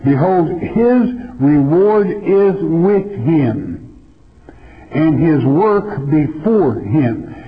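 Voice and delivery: slow, solemn reading of the verse; scripture reading. Acted. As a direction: read the Bible text slowly and with weight. Reads scripture verse aloud.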